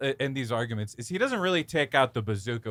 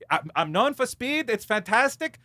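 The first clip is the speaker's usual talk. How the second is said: mock director voice; 6 semitones higher, 3 dB louder than usual. Imitating the director talking.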